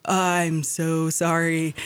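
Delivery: slow, hushed, stunned apology. Retold or imitated. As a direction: drop the voice, caught out and mortified.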